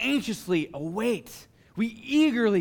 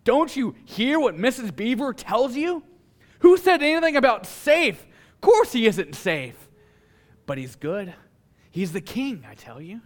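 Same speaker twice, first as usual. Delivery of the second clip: an indignant beaver, rising loud and higher on who said anything about safe; voiced Mister Beaver; 4 semitones higher, 3 dB louder than usual. Preacher voices Mister Beaver scolding Lucy, indignant and loud. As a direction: bluster at the silly question, then settle down. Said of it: "In comes Mister Beaver".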